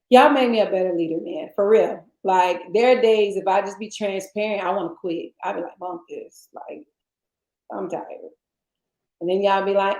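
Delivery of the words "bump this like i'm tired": low, soft and worn down; tired, softly dropped pitch; weary. Retold or imitated. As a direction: give up quietly, low in the voice. Acting out wanting to quit.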